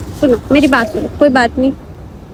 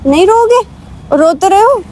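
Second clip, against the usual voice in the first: teasing; 5 semitones higher than usual. Real, not acted. Girlfriend teasing Sohan who says he won't cry, playful. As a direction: poke fun at his tears.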